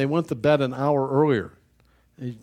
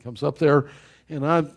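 ordinary talk

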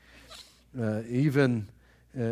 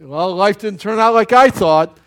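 mock complaint; 6 semitones higher, 12 dB louder than usual. Quoting a self-pitying complaint.

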